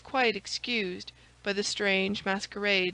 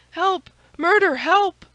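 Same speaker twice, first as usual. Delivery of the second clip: high, loud panicked screams; terrified cry for help; 10 semitones higher, 11 dB louder than usual. A narrator's reading. Lackey facing an armed stranger, panicked high screams. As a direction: shriek for help as if facing an assassin. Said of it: "cried he".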